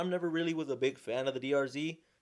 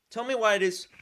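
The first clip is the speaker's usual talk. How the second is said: higher and louder, real exasperation building; getting riled up; 7 semitones higher, 5 dB louder than usual. Real, not acted. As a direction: let the outrage burst out, pitched high. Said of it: "I'm finna get riled up".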